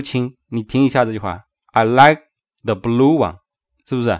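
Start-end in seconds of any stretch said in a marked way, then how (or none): 1.7-3.4 "like" and "blue" weighted, "I" and "the" lighter; stress on like and blue. Shown as a demonstration. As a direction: lean on "like" and "blue". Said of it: "这个like是不是要重读".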